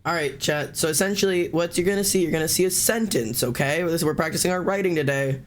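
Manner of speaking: lightly put-on teacher explaining to a class; walk the class through it like a teacher; a hint of classroom teacher. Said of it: "I'm doing my teacher voice".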